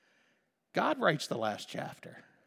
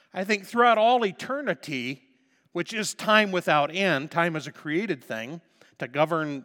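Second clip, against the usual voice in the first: preaching loud; 3 semitones higher, 9 dB louder than usual. Real, not acted. Preacher building.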